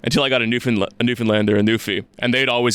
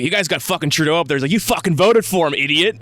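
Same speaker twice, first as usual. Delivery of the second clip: higher-pitched mock drunken accusation, mildly aggressive; retold aggression; 4 semitones higher than usual. Drunk stranger accusing a Canadian, imitated mild aggression. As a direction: jab at him, imitating a heckler. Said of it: "aggressive immediately".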